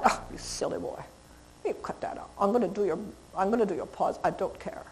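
soft, low and breathy, almost whispered; calm the teen dog down with a hushed low tone. Shown as a demonstration. Trainer settling a growling dog with a hushed low voice. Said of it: "I'm using a low voice".

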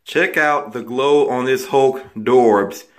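echoey voice in a tiled bathroom; talking in a small echoing room. Real, not acted. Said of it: "if my voice sounds a little bit echoey, it's because I am in my bathroom".

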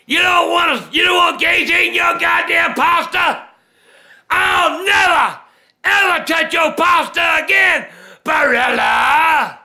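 furious yelling rant; angry shouting. Acted. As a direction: bellow it in outrage. Furious rant at pasta brand.

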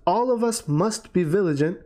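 "all of us must be vigilant" lifted above the rest; stress on all of us must be vigilant. Shown as a demonstration. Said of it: "you add this emphasis".

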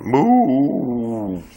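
calling the dog's name. Real, not acted. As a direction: lift the name to catch her ear.

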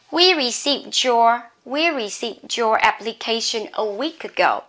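"received your" run together with a j sound; linked D and Y. Shown as a demonstration. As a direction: blend the end of "received" into "your" as a j. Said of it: "you can pronounce as j".

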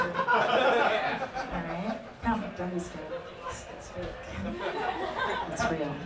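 soft, hushed comfort; calm them quietly; hushed reassurance. Acted. Soothing the crowd.

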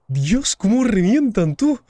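slow, high, loud shock; shocked exclamation. Real, not acted. Reacting to being killed.

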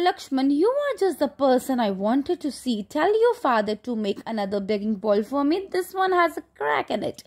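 reading the story slowly to the class; slow reading aloud. Acted. Teacher reading the textbook to the class, slow and deliberate. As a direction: read each word out slowly for students.

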